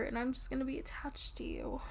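soft playful whisper. Real, not acted. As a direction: drop to a whisper. Cuddly whispered promise.

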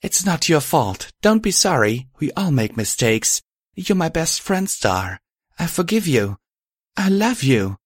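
high, gentle reassurance; quiet forgiveness. A narrator's reading. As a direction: console a friend in a small high voice. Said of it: "she said quietly".

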